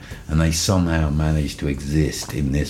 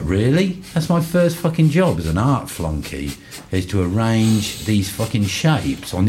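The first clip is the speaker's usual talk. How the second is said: mock indignant disbelief; 6 semitones higher than usual. Retelling indignant reply to friend.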